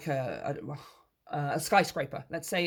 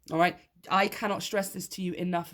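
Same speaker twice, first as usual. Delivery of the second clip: ordinary delivery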